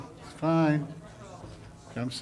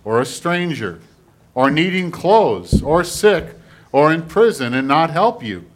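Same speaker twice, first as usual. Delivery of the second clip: measured, emphatic public reading; scripture reading; 6 dB louder than usual. Acted. Pastor reading scripture to the congregation, solemn proclamation. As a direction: read scripture out firmly to the congregation.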